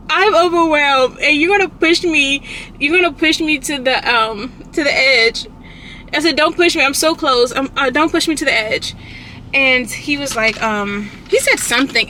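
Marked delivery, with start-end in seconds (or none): 0.1-5.5 raised, high snapping at him; snapping at her partner, irritable and raised. Retold or imitated. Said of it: "I was very irritable with him". 6.4-8.9 irritable. Retold or imitated. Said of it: "I was very irritable with him".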